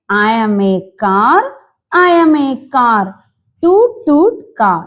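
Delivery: put-on very slow, clear words for children; slow reading aloud. Shown as a demonstration. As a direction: read the car's line slowly. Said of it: "നമ്മുടെ car എന്താ പറയുന്നത്?". (പതുക്കെ വായിച്ചു കേൾപ്പിക്കുന്നു)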